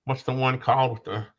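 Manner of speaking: speaking through a cough. Real, not acted. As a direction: talk between coughs, throat rough. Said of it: "I'm still coughing".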